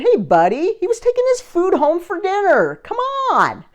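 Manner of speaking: high pleading shout back at the driver; mock exasperated shout defending the squirrel; retold yell back. She yells back at driver.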